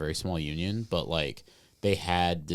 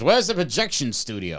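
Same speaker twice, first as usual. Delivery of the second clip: put-on old man voice; 8 semitones higher, 4 dB louder than usual. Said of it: "he goes".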